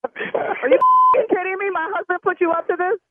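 shaken, heart racing; rattled and breathless after the shock; adrenaline shakes. Real, not acted. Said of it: "my heart is racing right now".

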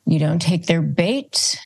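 ordinary talk

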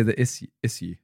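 "issue" as iss-yoo; posh issue. Shown as a demonstration. Friend checking how posh people say it, iss-yoo. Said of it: "posh people do it".

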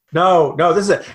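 ordinary talk, nothing marked

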